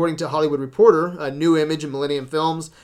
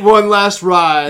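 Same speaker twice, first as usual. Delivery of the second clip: movie trailer voice; 2 semitones higher, 7 dB louder, much slower than usual. Pretend. Movie trailer line, slowed.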